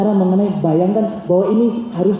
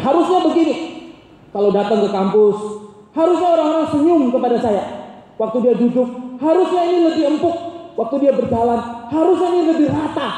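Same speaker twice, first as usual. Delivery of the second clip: mock-fussy complainer, raised higher; demanding idealist; 5 semitones higher than usual. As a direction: whine like someone who expects everything perfect. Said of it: "orang yang begini".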